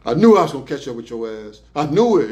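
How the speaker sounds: loud, rising threat; a touch of a taunting grudge, spat out; menacing threat. Retold or imitated. Inmate confronting a rival he was beefing with, loud threat.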